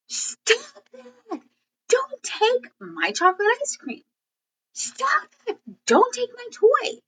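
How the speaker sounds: very high, tearful pleading; whiny crying child. Shown as a demonstration. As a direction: wail like a kid losing a toy. Acting a whining child.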